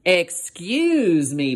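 slow, polite little hippo. Acted. Little hippo politely greeting the rhino, slow and polite. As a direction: ask very politely, drawn out. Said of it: "Portly said politely".

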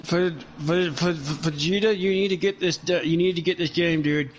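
stiff jaw, words through clenched teeth; talking through teeth. Real, not acted. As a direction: barely move the jaw, speak through teeth. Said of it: "You sound goddamn terrible".

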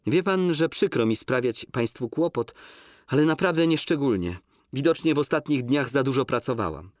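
heightened woman's voice, insistent; Łucja's voice. Acted. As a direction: refuse him, firm and pained. Łucja answers Pawlicki.

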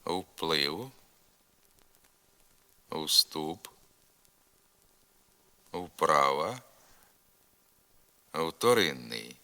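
repeat-after-me "Вплив, вступ, вправа, вторинний", no F sound; initial В as non-syllabic U. Shown as a demonstration. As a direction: model "Вплив, вступ, вправа, вторинний" word by word with long gaps, В as a U-glide. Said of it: "Вимовляйте за мною".

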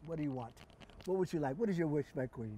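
genie. Acted. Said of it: "hear how Ben Vereen talks".

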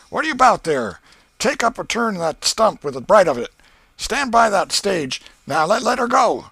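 high loud bellowed commands; boy bellowing like a riverboat captain; steamboat captain shouting orders. Acted. Ben playing steamboat, shouting captain's orders loudly.

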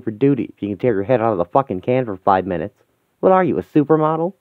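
cocky gangster needling his mate; crude swaggering thug. Acted. Gangsters bantering in a London street, brash laddish thug.

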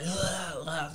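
mock vomiting groans; retching noises, acted out; imitated retching. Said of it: "throwing up, right?".

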